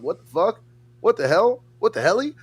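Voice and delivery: rising exasperated what the hell. Retold or imitated. Retelling his reaction to people disconnecting, exasperated and rising.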